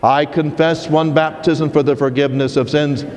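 steady, measured liturgical recitation; reciting the creed. Acted. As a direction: recite it as a solemn profession of faith. Leads the creed at Mass.

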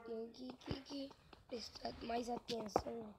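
unvoiced whisper to self. Real, not acted. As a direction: whisper a reminder to yourself.

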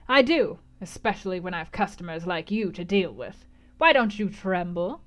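teasing crone challenge; lightly voiced gypsy goading Jane; taunting gypsy.

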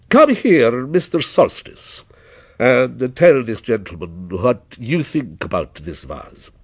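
lightly voiced shopkeeper summoning his man; mildly theatrical merchant; proprietor, courteous and commanding. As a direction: call an employee over to vouch for the goods.

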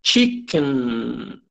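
chicken with the end through the nose; chicken, nasal ending; pronunciation demo. Shown as a demonstration. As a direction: close the mouth on the end of chicken. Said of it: "Observe a pronúncia de".

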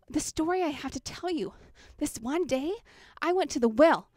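can't wait to tell the news; excited Samaritan woman. Acted. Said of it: "I'd be coming in as that Samaritan woman".

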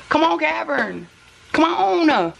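high sing-out to a pet; high coaxing pet call; calling the dog. Real, not acted. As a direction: coax the dog over with a high, falling call. Calling her dog over.

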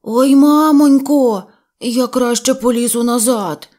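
a bear wailing in a tight hole; panicked cry. Acted. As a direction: call for mum, stuck and scared. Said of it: "Вінні-Пух закричав".

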